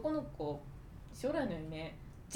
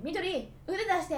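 drawn-out, higher mocking call; boy's taunt; 9 semitones higher, 5 dB louder, slower than usual. Classmate boy taunting a girl, mock call. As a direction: tease her like a careless classmate. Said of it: "男の子が急に来て".

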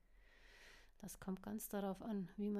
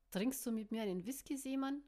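calling out; 3 semitones higher, 3 dB louder than usual. Acted. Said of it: "rief sie in das Getümmel".

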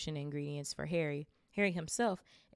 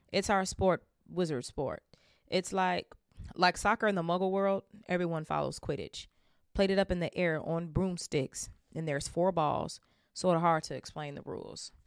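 louder, eager explaining; enthusiastic Hagrid; 5 dB louder than usual. Acted. Hagrid explaining Quidditch to Harry, louder and eager. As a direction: Hagrid talking up his sport. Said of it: "Hagrid explaining Quidditch".

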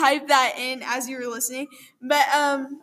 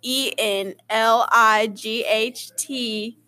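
spelling it out; 3 semitones lower, much slower than usual. Shown as a demonstration. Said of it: "I N".

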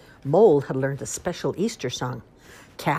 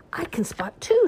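shouted; 4 dB louder than usual. Acted. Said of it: "shouted Floppy".

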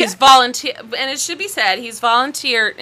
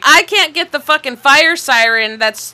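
loud, exasperated rant at the wife; hammed-up angry husband; mock outrage; 3 semitones higher, 6 dB louder than usual. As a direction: blow up in disbelief at her. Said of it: "he's like".

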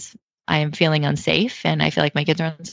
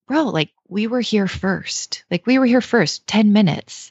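riled-up retort; 5 semitones higher than usual. Retold or imitated. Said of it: "so I started getting riled and I said".

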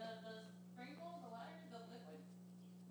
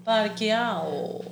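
drawn-out mock word; much slower than usual. Shown as a demonstration. Mocking the made-up Spanish word.

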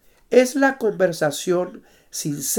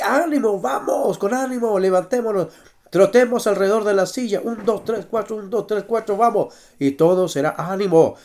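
barking gym coach; 3 semitones higher than usual. Acted. Leads chair jogging exercise count.

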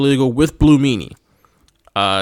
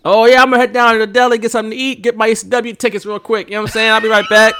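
put-on Philly accent; 8 semitones higher, faster than usual. Hammed-up Philly accent for a buddy on the podcast. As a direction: play a South Philly guy on lunch break. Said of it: "typical Philadelphia, um, person accent".

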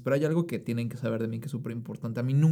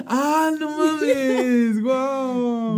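squealing in delight, much higher and louder; high excited squeal; 12 semitones higher, 8 dB louder, much slower than usual. Real, not acted. Friend squeals with delight at the news. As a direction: gush over it at the top of the voice. Excited reaction to joining the circle.

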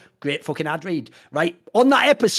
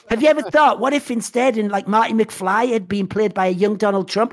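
mock shower-thought tweet; 4 semitones higher than usual. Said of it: "the next day, like".

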